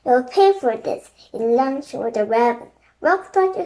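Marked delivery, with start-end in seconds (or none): 0.1-1.1 angry threat. Acted. King threatening the raven.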